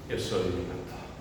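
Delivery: low, slow, soft self-importance; boastful pastor. Acted. Imagined pastor boasting of his title, self-important. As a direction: announce the title slowly, puffed up. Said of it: "le encanta presumir de lo que no deben de presumir".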